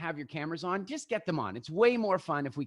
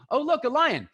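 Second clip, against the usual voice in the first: startled; 10 semitones higher, 5 dB louder than usual. Acted. Acting out spotting a lion.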